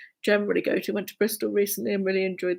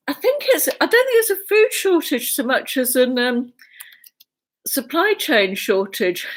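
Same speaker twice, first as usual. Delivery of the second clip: out of breath; 5 semitones higher, 4 dB louder than usual. Real, not acted. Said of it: "so out of breath".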